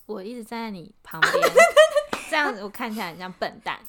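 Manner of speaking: laughing through quote. Retold or imitated. Quoting coworker while laughing.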